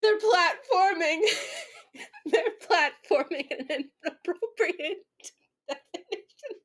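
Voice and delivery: high, slow words through real laughter; cracking up while reading, barely getting it out; laughing hard. Real, not acted. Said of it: "I'm laughing so hard I might cry".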